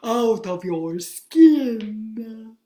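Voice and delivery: slow creeping menace, loud on the end; grinning nightmare creeping closer; dreadful dream. Acted. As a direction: drawl it out and snap the last word. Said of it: "with a dreadful grin".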